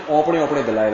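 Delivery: اوپنے twice with a rounded Punjabi 'o'; Punjabi-style 'opne opne' for اوپنے; Punjabi pronunciation. Shown as a demonstration. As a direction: repeat اوپنے in the Punjabi way, o first. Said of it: "ایسے ہی کہتے ہیں نا".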